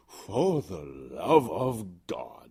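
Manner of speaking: very slow whispered echo; cold whisper. Acted. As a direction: whisper it back slowly.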